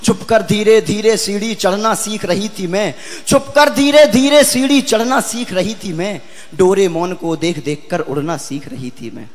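lilting, measured verse delivery; poem recitation. Acted. Poet voicing a little girl's early memories, heartfelt recitation. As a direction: recite each line with rhythmic, drawn emphasis.

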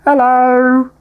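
high, loud creature cry of greeting; Mewtwo noise. Pretend. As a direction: squeal it out like a Pokemon calling. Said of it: "That's exactly the noise a Mewtwo makes".

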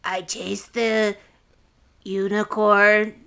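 slow, deliberate silly verse recital; rhyming goblin. Acted. Host invents rhymes for the goblin, mock rhyme recital. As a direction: recite a daft rhyme slowly, pausing between phrases. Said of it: "He's like".

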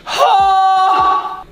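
sudden high yelp; high startled shout. Real, not acted. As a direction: jump at the splash with a cry. Splash while opening tomatoes.

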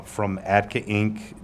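usual speaking voice

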